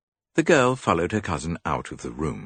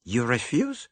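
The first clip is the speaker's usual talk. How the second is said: Poirot voice; 9 semitones higher, slower than usual. A narrator's reading.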